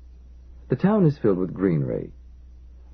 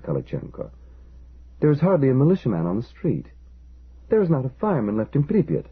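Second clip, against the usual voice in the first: higher and faster, pressing his fears; insistent frightened storekeeper; 4 semitones higher than usual. Acted. Storekeeper pressing the engineer about fire danger, urgent and higher. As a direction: push on anxiously, climbing to a high plea at the end.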